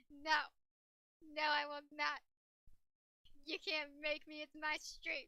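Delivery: loud, firm pushback; defiant refusal. Real, not acted. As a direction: refuse point-blank, loudly.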